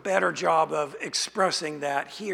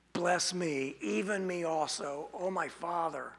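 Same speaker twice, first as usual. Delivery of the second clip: softer, sinking plea as the blessing slips away; quiet desperate plea; 6 dB quieter than usual. Acted. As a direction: plead quietly and fade out. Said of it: "It is a request of desperation".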